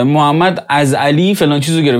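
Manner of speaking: علی stressed in the sentence; stress on Ali. Shown as a demonstration. Teacher showing shifting emphasis, stress on علی. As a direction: put the weight on علی.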